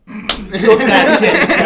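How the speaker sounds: loud, high burst of excitement; pumped-up mock grab; eager re-enactment. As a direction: blurt it out loud, half laughing. Re-enacts grabbing the mic eagerly.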